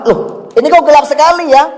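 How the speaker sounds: high, startled, confused questions; bewildered asking. Acted. Dead man waking in the grave, startled and confused. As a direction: sound lost and puzzled, searching.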